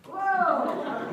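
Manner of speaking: loud, high "whoa"; startled exclamation. Real, not acted. Teacher reacts to thrown ball, startled exclamation. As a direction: yelp it out in surprise. Ball hits someone in class game.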